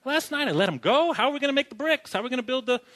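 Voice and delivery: groggy then rising high in mock panic; a lightly voiced Pharaoh waking up to his mistake; hungover Pharaoh. Pharaoh realizing he freed his labor, mock panicked high voice. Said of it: "He was like".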